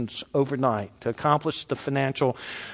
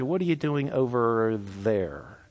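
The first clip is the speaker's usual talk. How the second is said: offhand call; 3 semitones lower, 5 dB quieter, slower than usual. Pretend. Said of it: "scriptures didn't say".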